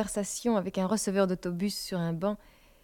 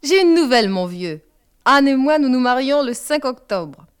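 a father springing big news, loud and abrupt; loud, abrupt declaration to an old friend; abrupt announcement; 4 semitones higher, 8 dB louder than usual. A narrator's reading. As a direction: blurt it out loud and sudden. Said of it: "déclara abruptement".

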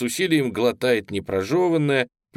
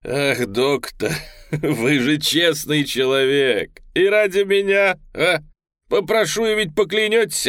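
laughing through the words, pitch climbing high; mock the doctor while laughing; a laughing madman teasing the doctor; 4 semitones higher, 4 dB louder than usual. A narrator's reading. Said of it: "вдруг расхохотался".

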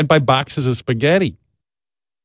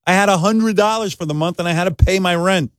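defensive; 6 semitones higher than usual. Retold or imitated. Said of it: "then I start defending myself".

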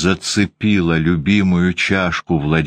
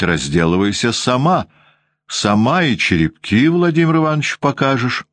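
злая воспитательница; 4 semitones higher than usual. Acted. Воспитательница злобно отчитывает Ванду.

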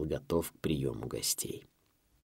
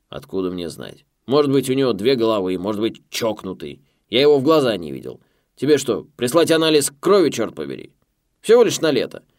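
loud, much higher, exasperated; irritated loud boss; 3 semitones higher, 9 dB louder than usual. A narrator's reading. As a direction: snap at him impatiently.

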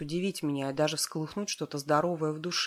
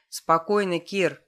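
loud commanding call to the wolf; 2 semitones higher, 7 dB louder, slower than usual. A narrator's reading. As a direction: command the wolf firmly, louder. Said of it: "властно проговорил Игорь". (властный громкий окрик)

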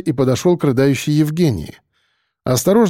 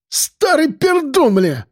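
визгливая брань; 13 semitones higher, much slower than usual. A narrator's reading. Мажорчик оскорбляет деда.

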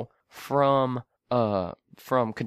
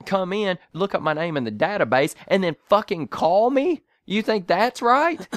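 sarcastic point-by-point scolding, building higher; smart-ass; 3 semitones higher than usual. Retold or imitated. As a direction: lecture the caller, climbing to incredulous questions. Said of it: "I go straight smart ass".

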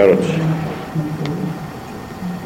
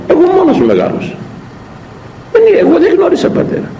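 high, fast, cheeky retort; insolent child; faster than usual. Retold or imitated. Priest imitating a child's insolent reply in confession. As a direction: mimic a child answering back insolently. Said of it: "Και το λέει έτσι, αυθαδός".

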